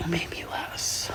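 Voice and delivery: tearful whisper. Real, not acted. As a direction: breathe the words out. Tearful whisper about Christmas.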